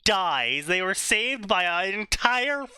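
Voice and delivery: dramatic trailer-style blurb read; reading a story blurb. Acted. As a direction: announce it like a book blurb. Reads out a fanfic blurb.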